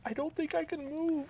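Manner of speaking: a man pitching up to play Rose. Acted. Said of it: "I'm gonna play the part of Rose".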